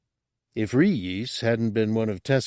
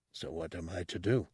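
uneasy; 3 semitones lower, 11 dB quieter than usual. Acted. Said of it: "Tessic asked uneasily".

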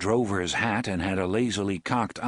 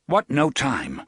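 brusque; 4 semitones higher, 4 dB louder than usual. Acted. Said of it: "Roland said brusquely".

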